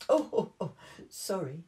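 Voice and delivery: sheepish dad caught yawning; lightly voiced embarrassed dad; Daddy Pig apologizing. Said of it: "said Daddy Pig".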